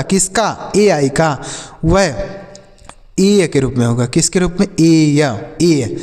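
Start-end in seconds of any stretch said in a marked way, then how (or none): 4.7-6.0 drawn-out ए या ए, sound by sound; slow teacher's sound demo of ए या ए. Shown as a demonstration. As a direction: spell out ए या ए slowly, like a teacher. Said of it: "कैसे sir?".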